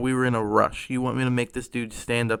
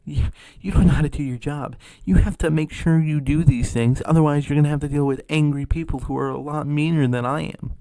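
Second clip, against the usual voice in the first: loud, raised scolding of a worker; yelling; 3 semitones higher, 6 dB louder than usual. Retold or imitated. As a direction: lecture loudly as the angry customer. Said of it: "she's yelling at her".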